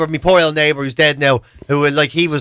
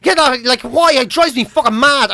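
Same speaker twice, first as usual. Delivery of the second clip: mock angry wife; 5 semitones higher than usual. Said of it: "she'd be there going".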